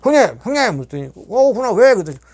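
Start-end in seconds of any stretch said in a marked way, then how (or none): 0.0-0.8 높고 크게 부르는 외침; 창 너머 멀리 닿도록 부르기. Retold or imitated. 1.3-1.9 높고 크게 되받는 대답; 멀리서 크게 "어, 왜?" 하고 응답; 부르는 소리에 큰 대답. Retold or imitated. 형님의 대답.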